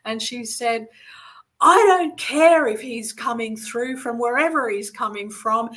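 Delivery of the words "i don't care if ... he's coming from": retold angry outburst. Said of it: "slammed her fist down".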